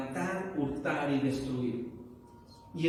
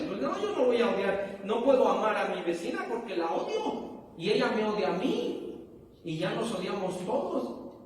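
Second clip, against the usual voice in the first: mildly indignant protest, higher pitched; raised, insistent objection; indignant refusal; 4 semitones higher than usual. Acted. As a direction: play someone balking at a hard command. Acts out someone refusing to love.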